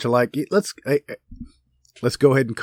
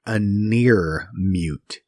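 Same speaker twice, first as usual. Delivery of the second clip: a near mute, said slow and deliberate, near stressed; slowly drawn out a near mute with weight on near; quoted phrase; 2 semitones lower, much slower than usual. Shown as a demonstration. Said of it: "quote unquote".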